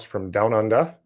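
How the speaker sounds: light, put-on Australian accent; attempted Australian accent. Podcast host introduces his guest from Down Under, attempted Australian accent. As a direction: have a modest go at an Australian accent. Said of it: "That's about the best Australian accent".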